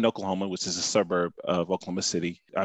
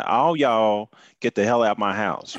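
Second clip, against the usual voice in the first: "all y'all" punched, slightly louder mock order; mock eviction; 2 semitones higher, 5 dB louder than usual. Guest acting out kicking everyone out, mildly louder. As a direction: play a parent throwing everyone out, half-joking.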